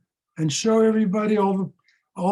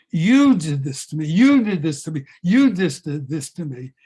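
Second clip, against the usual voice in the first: angry yell; 5 dB louder than usual. Acted. Husband screaming at his wife.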